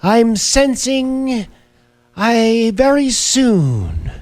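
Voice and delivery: high, very slow mystic intoning; drawn-out spooky psychic reading; psychic medium voice. Retold or imitated. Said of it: "Western Mass News spoke with Caputo".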